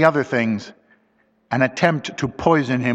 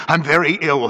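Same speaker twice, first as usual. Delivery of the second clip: gasping; 4 semitones higher than usual. Acted.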